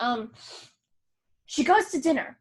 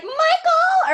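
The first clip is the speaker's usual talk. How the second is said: much higher, louder summons of the son's name; hammed-up mother calling her son; stern mom; 9 dB louder than usual. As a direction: call him out like a shocked mother.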